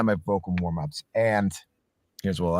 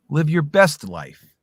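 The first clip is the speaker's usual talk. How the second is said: "Live your best life" drawn out slowly, higher and louder; slow, big reading; 6 semitones higher, 5 dB louder, much slower than usual. Shown as a demonstration. Voice actor showing a second reading, slow and loud. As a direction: stretch the whole line out slow and bold. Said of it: "three different ways to say it".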